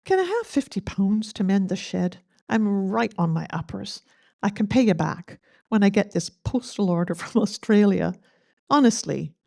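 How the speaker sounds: put-on light Scottish accent reading the poem. Eulogist reading the shed poem aloud, light Scottish accent. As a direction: give the poem a mild Scottish lilt. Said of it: "Great Scottish accent".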